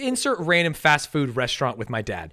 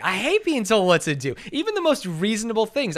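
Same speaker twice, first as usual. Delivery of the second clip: raised, defiant outburst; indignant; 5 semitones higher than usual. Real, not acted. Answering whether they dislike orders, comically indignant. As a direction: push back hard, half in fun.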